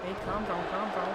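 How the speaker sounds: high-pitched mock Scouse; Scouse impression. Shown as a demonstration. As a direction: put on your best bad Scouse. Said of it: "That's the best Scouse I can do".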